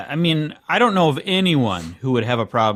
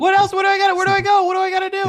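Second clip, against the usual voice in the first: put-on very high, eager kid voice; child; 3 dB louder, much faster than usual. Pretend child asks where to buy eggs, pestering child voice. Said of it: "you sound like a child".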